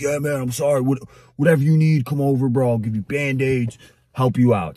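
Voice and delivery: imitated apologetic owner. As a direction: play the over-helpful dog owner mildly. Retold owner apologising and offering help.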